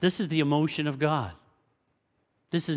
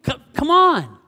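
God coaxing; 10 semitones higher, 8 dB louder than usual. Retold or imitated. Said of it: "He said".

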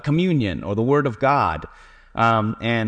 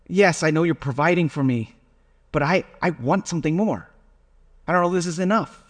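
sigh, then a higher, pleading complaint; whiny inner grumbling; 6 semitones higher than usual. Retold or imitated. Pastor voicing his own complaint to God, higher and whiny. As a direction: whine to God like a spoiled kid, pitched up. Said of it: "I think to myself".

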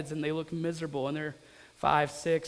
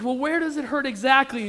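higher-pitched, mildly panicked question; acted-out worried urgency; freaked-out dad; 4 semitones higher, 4 dB louder than usual. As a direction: re-enact an anxious dad probing for the injury. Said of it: "I'm freaking out".

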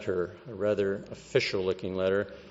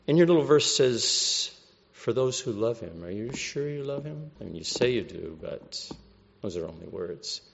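whispered taunting tempter. Retold or imitated. Satan whispering doubts.

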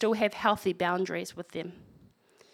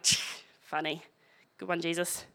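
sarcastic; 3 semitones lower, 5 dB quieter than usual. Retold or imitated. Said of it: "He's being sarcastic".

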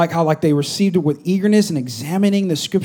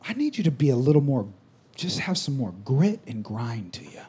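a hint of a gentle but firm God; voice of God, lightly done; 4 semitones lower, 9 dB quieter than usual. God correcting the pastor, lightly voiced, low and soft. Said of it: "I felt like God told me".

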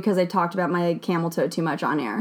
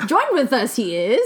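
mock Yoda. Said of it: "You're Yoda".

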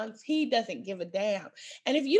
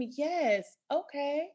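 mock-agreeable yes-woman; 6 semitones higher than usual. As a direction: hum along to placate the man. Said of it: "my grandmother's like".

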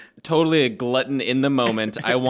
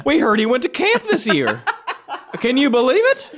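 much higher, louder hick voice; Ernest accent; 13 semitones higher, 4 dB louder than usual. Pretend. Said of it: "do an episode in that entire accent".

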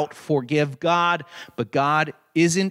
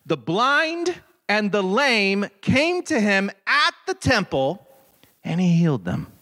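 scripture reading; 6 semitones higher, slower than usual. Acted. Reads verse fourteen aloud.

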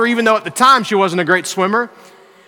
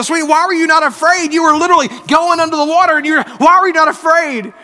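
put-on higher, faster disbelieving questions to his little girl; amazed question; 6 semitones higher than usual. A dad amazed his daughter felt no fear asks higher and faster. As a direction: ask it like you can't believe she wasn't scared.

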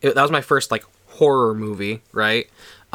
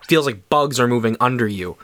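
ordinary talk

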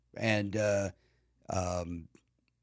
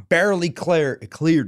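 broad Chicago vowels on barely cleared; Chicago accent; 3 semitones higher, slower than usual. Real, not acted. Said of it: "There's my Chicago accent".

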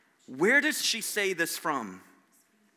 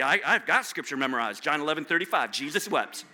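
imitated smug kid, pitched down; mock-smug recitation in a lowered voice; snarky comeback; 5 semitones lower than usual. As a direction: toss it off low, proud of the loophole. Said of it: "you would give that snarky response".

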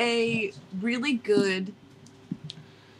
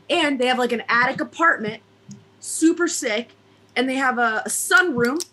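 loosely held put-on Jersey accent. Host telling friends about a night out, wobbly Jersey accent. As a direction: tell it like an Italian Jersey storyteller. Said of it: "exactly what kind of Jersey accent".

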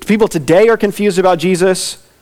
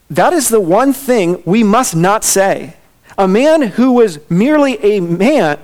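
emphatic quote reading. Acted. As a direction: read it out deliberately, like a solemn argument. Reads out C.S. Lewis quote.

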